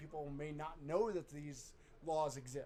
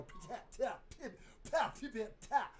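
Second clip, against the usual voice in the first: light spitting sounds, higher; mock spitting noises; 7 semitones higher than usual. Showing the co-host gross spitting, mock spits. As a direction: sputter out playful spits. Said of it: "just go".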